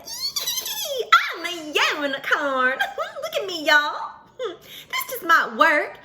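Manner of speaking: high squeal into giggles; giddy laughing. A narrator's reading. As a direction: laugh with pure delight. Thrilled with carrot horn.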